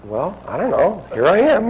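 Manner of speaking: high, loud and laughing; sheepish. Retold or imitated. Caught-out guest answering the scolding woman, laughing. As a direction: shrug it off with a laugh. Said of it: "And I go".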